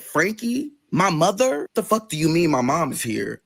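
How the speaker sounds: stunned disbelief. Retold or imitated. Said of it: "I'm very confused".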